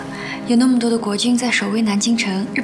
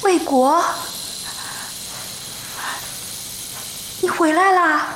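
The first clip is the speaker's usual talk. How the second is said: excited shouting; 8 semitones higher, slower than usual. Acted. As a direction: call out in joyful disbelief. Hearing her lover's voice.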